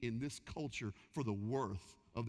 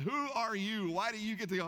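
glaring crowd; 5 semitones higher than usual. Retold or imitated. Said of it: "staring daggers at you like".

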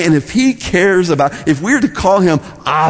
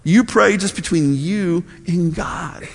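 voicing Jesus; 4 semitones higher, 4 dB quieter than usual. Jesus telling followers to pray privately, soft instruction. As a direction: spell it out gently, with pauses. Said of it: "He says".

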